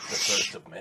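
whispered, breathy, soft and hushed, under the breath. A player narrates their character landing and loosing an arrow, then speaks whispering.

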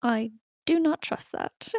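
slow, muttered mumble under the breath. A player, as Martle, reacts to a note on a cookie, Martle mumbling to herself. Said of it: "to herself mumble".

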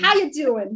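put-on high-pitched Long Island accent. Talking about their accountant, imitating him in a put-on Long Island accent. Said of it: "He's got a great Long Island accent".

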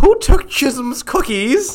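very high, shrill, screaming yell. Retelling a school story, the speaker acts out the nun's question, imitating Sister Rose screaming. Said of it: "just yelling it, screaming".

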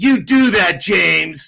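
mock-sarcastic tone. Retelling a phone call where Brett refused the number, retelling Brett being sarcastic. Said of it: "he's being sarcastic".

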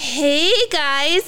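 high, eerie, creepy voice, "hey" drawn out. Recalling a scene from a show, the speaker imitates a character's creepy voice. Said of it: "like that kind of creepy voice".

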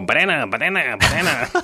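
little cartoon creature voice, full cartoon. Retelling how every little kid reacted to the banana: Minion voice. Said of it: "go instantly into like minion voice and go".

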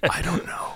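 hushed, barely audible whisper. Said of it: "that's why you were whispering?".

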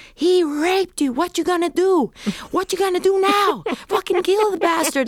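all-out, very high, top-of-lungs yell. Recalling a death scene shoot, the speaker re-enacts yelling at the top of their lungs. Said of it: "I was yelling at the top of my lungs".

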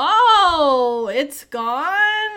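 badly acted fake shock, high-pitched and loud. Retelling characters lying through their teeth: imitating Louise and Linda's fake surprise. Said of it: "They're bad, bad acting".

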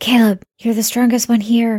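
hushed whisper. In a game scene, Skylar turns to Caleb, whispering. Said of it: "Skylar turns to Caleb and whispers".

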